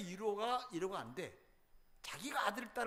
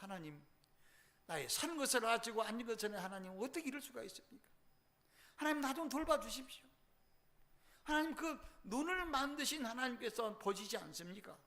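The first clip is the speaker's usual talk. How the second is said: wailing prayer; 4 semitones higher than usual. Acted. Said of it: "통곡하고".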